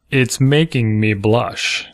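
slow, flat lyric reading; deadpan reading. Shown as a demonstration. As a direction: read it dry and slow. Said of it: "read it deadpan".

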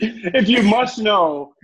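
amused. Real, not acted. Hammed-up mock explanation while laughing.

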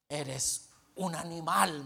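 slow, loud mock outrage; indignant accusation, acted; furious retort. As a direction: imitate an offended man, drawing out the insult. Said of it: "furioso, y me dice".

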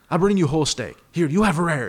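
a hint of a proud Brazilian waiter; lightly put-on Brazilian accent. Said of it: "killer Brazilian accent".

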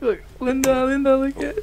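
put-on high-pitched insistent little boy; imitating a young kid arguing; small boy imitation. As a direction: plead like a preschooler, pitched right up. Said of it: "a three or four-year-old boy".

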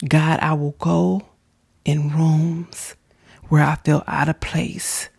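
congregation led in earnest prayer; fervent prayer. Real, not acted. Continues leading prayer.

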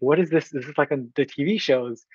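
mildly panicked retelling of first seeing the scanner; freaking out. Retold or imitated. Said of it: "freaking out".

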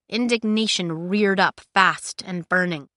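usual speaking voice

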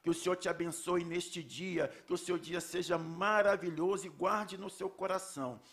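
fervent spoken prayer; praying aloud. Acted. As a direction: pray it earnestly over the congregation. Leads a congregational prayer.

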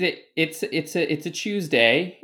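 put-on playful British accent, lifted in pitch; mock British accent. Host opening the catch-up with a joke, mock British accent. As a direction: put on a jokey British "Chooseday". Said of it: "I've learned to stop making fun of accents".

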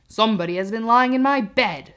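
a hint of the big bear's growl; mild gruff papa bear; great rough gruff voice. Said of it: "in his great rough, gruff voice".

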